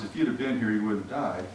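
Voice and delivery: a gentle touch of heartbreak; hurt and grieving. Retold or imitated. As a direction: say it quietly through grief. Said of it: "I don't think it's in quite the same way".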